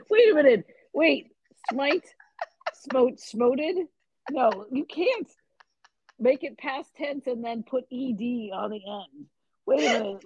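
baffled protest. Real, not acted. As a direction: object in real disbelief at the bad grammar. Baffled objection to wrong word.

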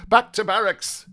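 high, stern military order. Acted. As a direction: order them back, pitched well up. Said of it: "he said sternly".

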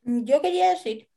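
talking while eating breakfast; words round a bite of breakfast. Real, not acted. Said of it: "perdón que estoy tomando desayuno".

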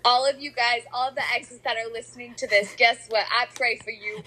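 mock address to exes. Playfully addressing listening exes.

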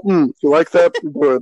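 mock half-interested bedroom talk; unenthusiastic. Mimicking a co-host for laughs, unenthusiastic. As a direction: imitate a lover with no enthusiasm. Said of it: "a very unenthusiastic guy in sex".

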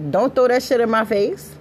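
put-on scolding her boyfriend, high and heated; firm warning. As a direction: warn your man off, raising the voice. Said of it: "I had to tell my dude".

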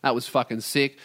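ordinary talk, nothing marked

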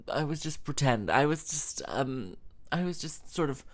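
lightly mocking stammer; imitating flustered backtracking. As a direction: fumble for an excuse as the awkward woman. Imitating woman backtracking awkwardly.

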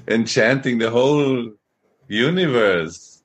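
teasing mock praise, slowing at the end; sarcastic. Devotee mock-praising Kamadev the enchanter, sarcastic. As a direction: lay on mock admiration, dragging the last word. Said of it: "this is a little sarcastic".

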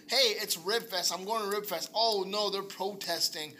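mock protest convert. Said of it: "be like".

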